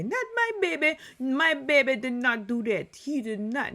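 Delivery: put-on over-the-top mother protecting her baby from the police; protective mom accent. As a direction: shriek it like a mama denying everything to the cops. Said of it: "why am I giving her that accent".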